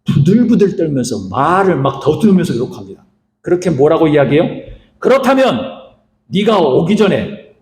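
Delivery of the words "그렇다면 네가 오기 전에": a father shaken, words slowing; trembling. Retold or imitated. Isaac trembling as he questions Esau, mild slow quaver. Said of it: "라고 부들부들 떠".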